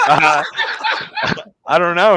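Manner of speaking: imitated confused reply; mock bafflement. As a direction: answer as a thrown customer. Acting out the baffled customer.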